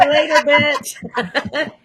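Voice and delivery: high, laughing mock-sassy goodbye. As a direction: toss it off through a laugh, playfully cocky. Friends joking about sassy attitude.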